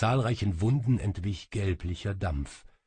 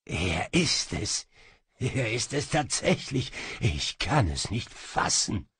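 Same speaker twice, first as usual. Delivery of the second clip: trembling with excitement. Acted. Egyptian marvels at the ring, trembling excitedly. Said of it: "seine Stimme bebte".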